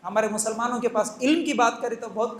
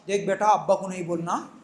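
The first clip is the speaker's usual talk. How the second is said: mother whispering secrets; 5 semitones lower, faster than usual. Retold or imitated. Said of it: "सिखाती क्या".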